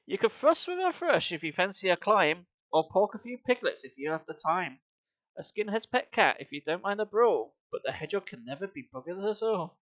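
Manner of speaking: sing-song rhythmic verse reading with a heavy beat; poem recitation. Acted. Streamer reads a bawdy song to chat as rhythmic verse. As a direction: recite the verse with a bouncing meter, fighting back giggles.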